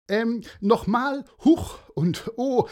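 hoch und laut durchgelacht; lachend. Acted. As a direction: den Ausruf lachend wiederholen. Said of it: "lachte der Mann". (Mann lacht über seinen Schreck, hoch und laut)

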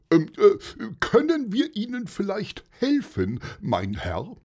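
high, polite, helpful voice; friendly offer. A narrator's reading. Paulus politely offering help to angry stranger. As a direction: offer help kindly and carefully. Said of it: "fragte freundlich".

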